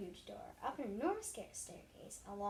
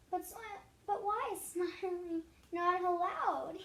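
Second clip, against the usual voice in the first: laughing question; 8 semitones higher, 6 dB louder than usual. A narrator's reading. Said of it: "laughed Miss".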